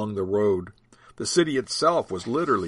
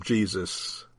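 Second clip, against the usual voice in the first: warm; 3 semitones lower than usual. Acted. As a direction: say it gently, relieved. Dad relaxes, recognizes name.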